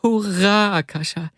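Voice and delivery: high, jubilant hurrah; jubilant cheer. A narrator's reading. Vasya cheers his friend Akasha, jubilant. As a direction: cheer out high, then drop on the name.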